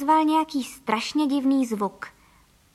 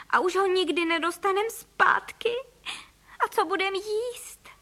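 tearful lament; 8 semitones higher than usual. Acted. Mother laments lost home.

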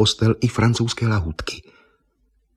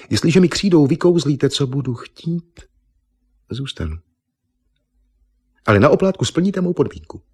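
higher, teasing bargain with a demand; coy bargaining; 8 semitones higher than usual. Acted. Eva bargaining with Argon for the chalk, coyly higher. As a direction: lure him into a deal.

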